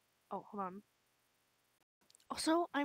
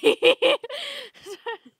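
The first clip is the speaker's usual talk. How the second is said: loud high cackle; 13 semitones higher, 16 dB louder than usual. Acted. Loud high burst after insult.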